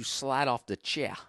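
lightly attempted New Orleans accent; bad New Orleans accent. Comic bragging about buttery mashed potatoes, bad New Orleans accent. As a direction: put on a rough New Orleans drawl. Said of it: "That's a bad New Orleans a-, accent".

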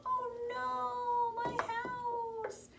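very high panicked little pig; squealing pig in fright. Acted. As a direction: wail for the lost house. Pig's house blown down.

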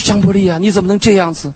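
preacher's impassioned rebuke of himself; self-rebuke. Retold or imitated. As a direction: scold yourself with rising fervour. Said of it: "我说".

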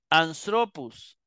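anstropus slowly, with the stress on TRO; stress on penult. Shown as a demonstration. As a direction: stretch anstropus out, accenting TRO. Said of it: "tiene que retraerse a la segunda". (anstropus despacio, con el acento en TRO)

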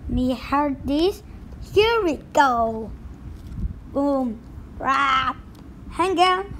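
pirate steering through rough seas; pirate captain voice. Acted. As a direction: ride out the storm like a captain.

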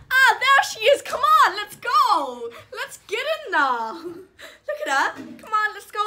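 excited high voice greeting the puppy; high pet talk. Real, not acted.

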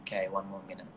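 quietly noting the time left; soft aside. Real, not acted. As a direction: murmur the time check. Checks remaining time on live.

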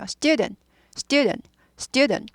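student as quick falling STYU-dn, t unreleased; swallowed final t. Shown as a demonstration. Teacher drilling student for listeners, final t swallowed. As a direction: repeat student evenly with stress up front. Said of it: "강조되지 않아요".

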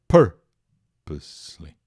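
"Purposely" broken up, PUR loud and low, then a slow -pose-ly; "Purposely" in slow syllables, first one strongest; stressed first syllable. Shown as a demonstration. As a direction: punch PUR in "Purposely" and draw out the rest. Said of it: "A sílaba tônica é a primeira".

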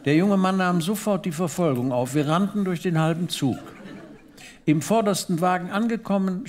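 normal talking voice

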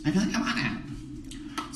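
hushed, slow confession of desire; a secret little want, whispered; breathy whisper. Pretend. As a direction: whisper it like a guilty craving.

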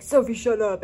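mock an irritated family telling-off; imitating mad family. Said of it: "literally get mad".

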